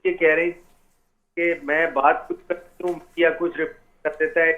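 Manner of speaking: choppy, breaking-up phone audio; bad signal, words dropping out; cutting out phone line. Real, not acted. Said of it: "आपकी sir आवाज़ काट रही है".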